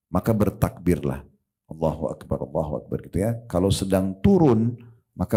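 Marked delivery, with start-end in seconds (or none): 1.7-3.0 low, soft takbir; quiet dhikr. Shown as a demonstration. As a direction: murmur it gently as a private remembrance. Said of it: "kita zikir pelan sudah cukup". (zikir pelan bernada rendah)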